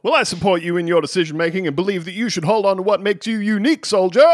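lightly voiced drill sergeant; a hint of barking orders. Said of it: "I'll be your drill sergeant".

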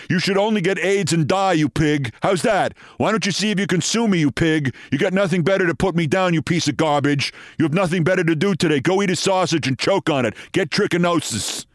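quick, lightly acted tirade; mock angry rant. Commentator quoting a host abusing a caller, mock angry rant. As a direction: rattle off the insults in mock outrage. Reading out Savage's insults to a caller.

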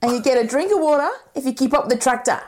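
lightly imitated Australian farmer; mock Aussie farmer laying down the rules; Australian accent. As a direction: give orders in a put-on Australian accent. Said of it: "when we do an Australian accent".

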